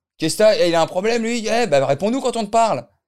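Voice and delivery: aggressive, rowdy voice. Acting out a rowdy bar guy picking a fight: imitating an aggressive bar guy. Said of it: "Tu le fais trop bien".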